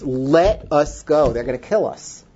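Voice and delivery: mild plea, the first words drawn out; retold begging. Boy begging his parents to flee, retold as a plea. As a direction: plead slowly, then let it drop. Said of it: "And I begged my parents".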